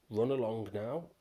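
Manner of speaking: mild mock gruffness, shooing him away; called gruffly. Embarrassed troll shooing the boy off, mildly gruff. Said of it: "he called gruffly".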